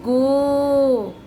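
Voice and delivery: put-on drawn-out, sung-out गो for children; syllable read out for pupils. Shown as a demonstration. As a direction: model गो clearly for the class. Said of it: "गा पर ओ की मात्रा".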